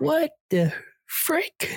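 high, slow, drawn-out shocked cry; shocked squeal. Retold or imitated. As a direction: squeal it out in disbelief. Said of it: "she was".

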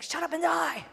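a touch of mock rebuke; firm command. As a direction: tell it off flatly.

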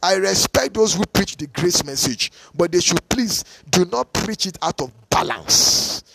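BALANCE punched hard at the end; emphatic. Real, not acted. Preacher warning those who preach the grace message, emphatic. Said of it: "let me say that very emphatically".

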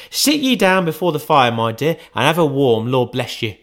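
a hint of a fussing mother settling her daughter; Mrs Cratchit.

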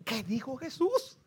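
slow question with a rising end; puzzled pondering. Acted. Man lying in bed puzzling over a phrase, pondering. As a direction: wonder it to yourself, drawn out. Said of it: "se quedó con la mente".

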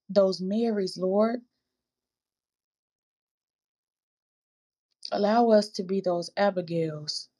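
earnest, steady prayer with a lift on each plea; closing prayer. Real, not acted. Host leading her podcast listeners in prayer, earnest. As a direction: pray aloud for the listening sisters.

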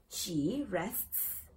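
"rests" with the "ts" audibly hissed at the end; clear final S. Shown as a demonstration. Teacher gives an example, "rests" with clear final S. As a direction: let "rests" finish on a distinct S. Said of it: "siempre sonar esa S al final".

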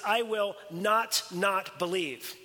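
slow "not, not", each one set apart; emphatic double negative. Shown as a demonstration. Preacher explains the Greek double negative, slow and emphatic. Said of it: "a more emphatic negative".

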